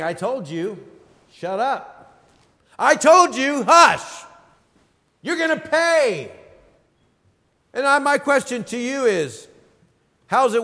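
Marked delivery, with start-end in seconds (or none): 0.0-2.2 low, soft devil voice; quiet menace; Satan's taunt. Retold or imitated. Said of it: "Satan is saying". 2.8-6.3 higher and louder, snapping; a roaring devil's threat; Satan's threat. Retold or imitated. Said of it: "Satan is saying".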